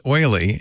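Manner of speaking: Islay rounded into "oily"; "oily" as a stand-in for brogue Islay; brogue-style pronunciation. Shown as a demonstration. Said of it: "Just think oil".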